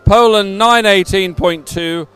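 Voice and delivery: measured, emphatic results read; results announcement. Real, not acted. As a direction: announce each placing clearly to the crowd. Reads out race results.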